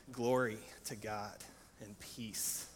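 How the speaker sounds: soft, slow, drawn-out Glory; hushed slow glory. Acted. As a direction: let it float out quietly. Heavenly host, hushed.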